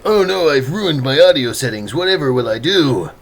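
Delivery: overdramatic lament, imitating oneself; hammed-up helpless wail; mock dismay. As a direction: play up the fake despair. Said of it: "all this buildup of me like".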